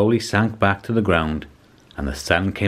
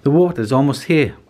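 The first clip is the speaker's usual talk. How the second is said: much higher, squeaky call; a gentle giant with a tiny squeak; squeaky giraffe; 6 semitones higher, 3 dB louder than usual. A narrator's reading. Giraffe offering the animals his back, squeaky. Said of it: "he squeaked in his high voice".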